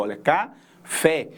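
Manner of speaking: café slow, with the final fé pressed; stress on café. Shown as a demonstration. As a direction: lean on fé in café. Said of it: "Então, a última". (café devagar, com força no fé)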